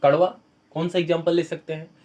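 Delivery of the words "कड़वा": कड़वा said louder and rising; stressed word. Shown as a demonstration. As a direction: punch कड़वा loud with a lift at the end. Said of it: "ये स्वाद में कड़वे होते हैं". (कड़वा पर ज़ोर)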